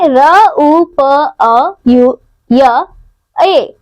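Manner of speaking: रुपए broken into र, उ, प, अ, यु, य, ए; sounding out. Shown as a demonstration. Teacher shows children the sounds in रुपए, sounding out र, उ, प, अ, यु, य, ए. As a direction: say र, उ, प, अ, यु, य, ए one by one. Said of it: "रुपए शब्द में आई ध्वनियां हैं".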